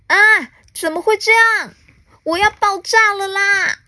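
very high storybook wail; panicked cry. A narrator's reading. Alien with ballooning belly fears bursting, panicked cry. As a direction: cry out in acted alarm, pitch held high. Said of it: "巴巴鲁大叫".

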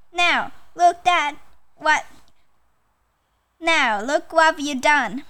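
mildly grumbling bear; a touch of grumpy bear. Acted. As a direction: scold with a light storybook grumble. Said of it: "grumbled Bear".

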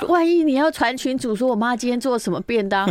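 high, loud comic exasperation; hammed-up indignant exclaiming; mock outrage. Host jokes in mock horror.

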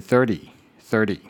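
thirty with a light loose tongue tap; just touch the tongue on thirty; relaxed thirty. Shown as a demonstration. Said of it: "舌头稍微放松一点". (舌头放松，轻点一下念thirty)

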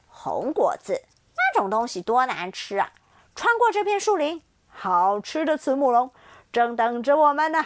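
loud, gloating predator voice; greedy tyrannosaurus. Acted. T-rex sneering at the little dinosaur, loud and gloating. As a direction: brag about the tasty meal ahead. T-rex mocks, reveals hunger.

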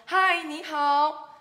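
loud, high, slow hello; sung-out storybook greeting; frog's greeting. Acted. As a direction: hail the turtle with a stretched call. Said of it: "先跟乌龟先生说".

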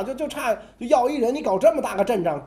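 mock-offended Korean king complaining to Qin; exasperated king. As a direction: whine like a bullied little king. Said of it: "那韩王说".

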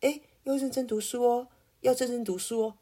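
a hint of a gentle teacher. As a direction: coax a student sweetly. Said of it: "很温柔的跟你说".

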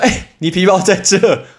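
high, drawn-out mock yell; retold call. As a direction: imitate a classmate calling out from behind. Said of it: "我同学在后面大叫说".

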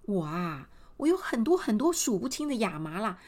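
generous queen. Acted. Queen telling the mother she'll take the girl, grandly. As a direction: sweep the girl up with royal generosity. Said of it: "这皇后一听".

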